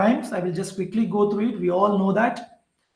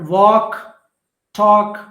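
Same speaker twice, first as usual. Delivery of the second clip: emphatic rhyme words; 8 dB louder than usual. Shown as a demonstration. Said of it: "green colored are end rhymes".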